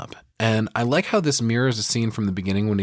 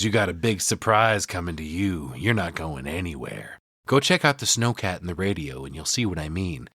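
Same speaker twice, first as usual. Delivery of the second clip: crazed Jack; 4 semitones lower than usual. Retold or imitated. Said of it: "all the crazy's back in Jack's eyes".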